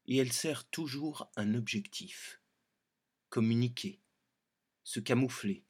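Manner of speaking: wildlife documentary narration. Shown as a demonstration. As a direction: narrate the bush gently, like a wildlife film. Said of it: "Documentaire animalier".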